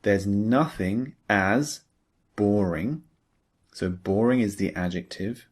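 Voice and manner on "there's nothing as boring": slow model reading. Shown as a demonstration. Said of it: "Look at the example below".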